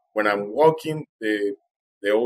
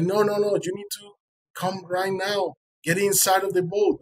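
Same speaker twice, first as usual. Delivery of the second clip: high-pitched, urgent retold order; 8 semitones higher than usual. Fisherman ordering swimmer into the boat right now, urgent. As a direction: imitate a boatman hurrying someone aboard.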